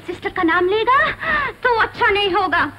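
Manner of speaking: loud threatening warning; stern warning. Acted. Warning to the lodger. (धमकी भरी चेतावनी)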